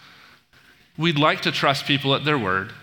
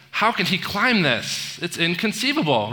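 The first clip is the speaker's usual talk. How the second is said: higher-pitched, incredulous retold outburst; mock disbelief; 4 semitones higher than usual. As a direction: act out baffled disbelief, pitched up. Vizzini's disbelief, acted in retelling.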